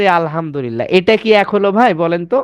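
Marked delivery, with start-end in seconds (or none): 0.0-0.8 আলহামদুলিল্লাহ with the deep throat হ; quietly recited আলহামদুলিল্লাহ; Arabic recitation. Shown as a demonstration. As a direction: recite it the right way. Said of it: "এই বাম সাইডের".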